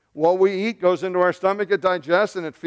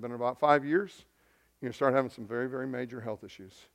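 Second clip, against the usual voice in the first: quieter, lower, gentle warning; gentle doctor; 5 semitones lower, 9 dB quieter, faster than usual. Retold or imitated. Doctor to patient about coming health trouble, gently. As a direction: deliver bad news very gently, softly. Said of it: "He said it very gently".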